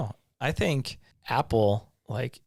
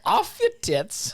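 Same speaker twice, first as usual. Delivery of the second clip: 1 laughing repeat; 6 dB louder, slower than usual. Real, not acted.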